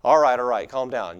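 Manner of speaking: loud start, then easing off; eye-rolling dismissal. Acted. Matthew answering someone correcting him, eye-rolling dismissal. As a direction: brush off the nitpicker, mildly exasperated. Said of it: "it's always a rolling of the eyes".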